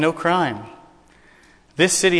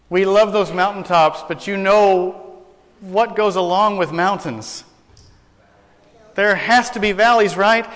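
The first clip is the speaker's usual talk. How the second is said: rising excitement; 4 semitones higher than usual. Real, not acted. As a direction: lift the congregation up the mountain. Preacher builds on joy.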